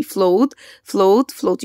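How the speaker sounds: "Float" said clearly, one by one, to echo; model word for repeating. Shown as a demonstration. Teacher drills "Float" for the class to repeat. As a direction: give "Float" cleanly so pupils can copy. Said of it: "Repeat after me".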